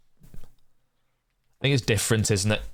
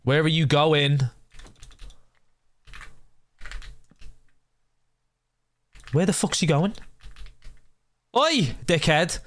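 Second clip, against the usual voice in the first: high exasperated yell; yelling at villager; 8 semitones higher than usual. Real, not acted. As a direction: shout after the runaway villager.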